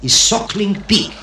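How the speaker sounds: put-on light comic French-accented waiter; French accent, lifting on the dish. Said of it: "And the waiter says".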